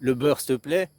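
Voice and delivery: "le beurre, s'il te plaît?" asked as a command; bossy order. Shown as a demonstration. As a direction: demand the butter. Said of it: "t'as ordonné, hein, agressif".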